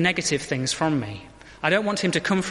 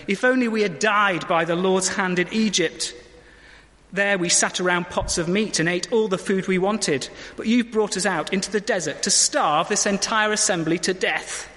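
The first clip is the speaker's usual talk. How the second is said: whining Israelites; 4 semitones higher than usual. Acted. Israelites complaining in quote.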